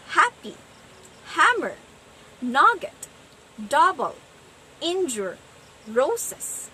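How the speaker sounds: "happy, hammer, nugget, double, injure, roses" each stressed on the first syllable; heavy first syllable, light second in "happy, hammer, nugget, double, injure, roses"; trochaic stress. Shown as a demonstration. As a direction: list "happy, hammer, nugget, double, injure, roses" with falling strong-weak beats and pauses. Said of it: "From a heavy syllable to a light syllable".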